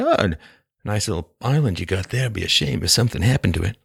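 low mafia extortion voice; smiling menacing loan shark. Pretend. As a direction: lean in like a mob enforcer. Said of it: "this is mafia talk".

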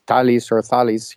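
"Thales or Thales" as TAH-lees or THAH-lees; first "Thales" with hard T, second with TH; two Greek variants. Shown as a demonstration. Guest offering host two Greek options, "Thales or Thales", TAH-lees or THAH-lees. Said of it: "the correct pronouncement".

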